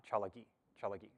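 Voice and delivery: quick Cherokee model of "Chalagi" twice; Cherokee pronunciation. Shown as a demonstration. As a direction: repeat "Chalagi, Chalagi" quickly, CHA-la-gi. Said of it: "it's be written or spelled".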